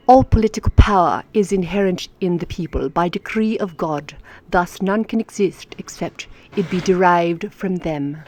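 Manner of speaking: card read in a lightly put-on English accent. Shown as a demonstration. Teacher rereads the card to viewers, English accent. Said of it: "That's my English accent".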